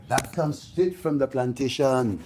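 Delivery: "straight from the plantation" drawn out slowly; slow, emphatic. Real, not acted. Speaker to audience about complexion prejudice, slow and emphatic. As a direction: stretch each word of "straight from the plantation" for weight.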